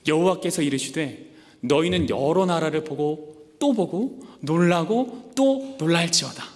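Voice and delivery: slow, weighty reading of God's words; preacher reading God's reply slowly; solemn scripture reading. Acted. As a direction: read it out slowly like a proclamation. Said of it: "하나님 이렇게 대답하세요".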